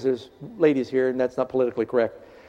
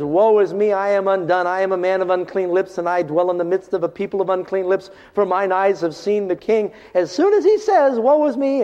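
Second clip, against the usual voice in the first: anguished cry; 4 semitones higher than usual. Retold or imitated. Isaiah's cry quoted.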